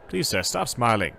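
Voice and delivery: uncomfortable alarm. Acted. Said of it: "sounding uncomfortably, quite alarmed".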